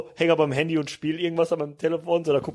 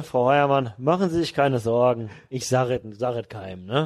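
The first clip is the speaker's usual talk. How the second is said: gönnerhaft und beruhigend, etwas langsam; patronizing; 2 semitones lower, slower than usual. Retold or imitated. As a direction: sprich herablassend tröstend. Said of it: "ultra gönnerhaft noch". (gönnerhaft beschwichtigend)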